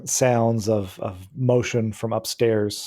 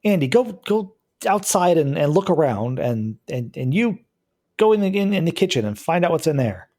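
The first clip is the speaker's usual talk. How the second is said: bossy order; 6 semitones higher than usual. Acted. Lisa orders Andy to search.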